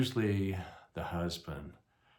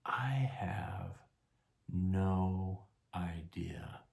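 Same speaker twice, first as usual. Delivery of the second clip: slow admission; much slower than usual. Retold or imitated. Deadpan admission to his wife.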